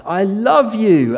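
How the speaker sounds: high, slow, hammed-up shout of love; stretched falling lover's cry; mock shout. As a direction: call it out as you fall. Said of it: "he turns to her and shouts".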